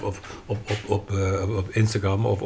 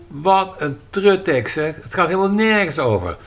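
scornful outburst; 5 semitones higher, 4 dB louder than usual. Retold or imitated. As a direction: scoff at the text like a harsh critic. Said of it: "als je niet alleen maar roept".

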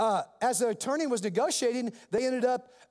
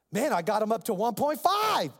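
excited news; 2 semitones higher than usual. Retold or imitated. Retold attorney calls with news.

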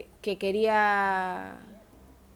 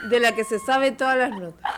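laughing; 2 semitones higher, 6 dB louder than usual. Real, not acted. Teasing about a news-reading friend.

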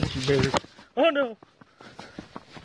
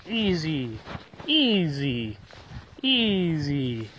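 soothing calm; 4 semitones lower, much slower than usual. Real, not acted. Calming the dog.

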